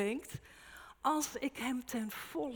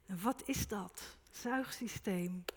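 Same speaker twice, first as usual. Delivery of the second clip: ordinary talk, nothing marked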